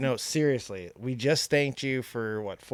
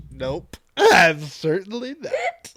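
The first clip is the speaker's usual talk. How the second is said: slow dog reply; 4 semitones higher, 5 dB louder, much slower than usual. Pretend. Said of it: "He looked at you like".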